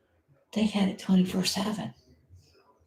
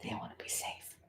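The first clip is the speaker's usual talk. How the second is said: fast, much softer whisper; 18 dB quieter, faster than usual. Real, not acted. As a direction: hush it like someone might hear. Whispers during the live coverage.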